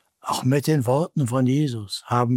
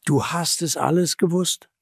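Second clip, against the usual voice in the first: raised-pitch appeal to the listener; urging, slightly raised voice; earnest appeal; 3 semitones higher than usual. Acted. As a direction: press it home earnestly. Urgent appeal, later repeated as verdict.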